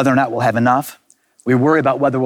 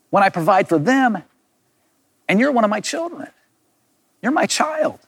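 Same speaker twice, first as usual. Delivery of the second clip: higher, unforced pleading tone, rising toward the end; gentle reassurance; 4 semitones higher than usual. Retold or imitated. Jesus reminding John he is his child, gently reassuring. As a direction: reassure a doubting child with affectionate disbelief. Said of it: "I don't think that's his tone here".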